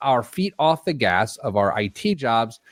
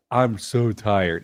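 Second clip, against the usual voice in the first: imitating tired; 2 semitones lower, much slower than usual. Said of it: "You said".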